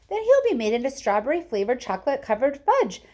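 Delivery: mother shouting at Wonka. Acted. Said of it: "shouted Missus Goop".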